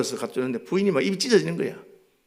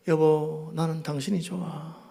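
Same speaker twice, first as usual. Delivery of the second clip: softer, slow loving words to his wife; tender confession; 3 dB quieter, slower than usual. Retold or imitated. Sick husband sweet-talks his wife, softly and slowly. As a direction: coax her gently. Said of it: "저는 아프면 딱 한마디".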